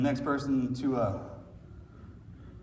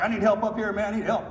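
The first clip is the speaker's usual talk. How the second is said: mock yell, higher and louder; retold scream for help; 6 semitones higher, 3 dB louder than usual. Dying comrade calling for help up the mountain, a mild mock yell. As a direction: echo the wounded man's cry, half-voiced. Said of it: "he started screaming for help".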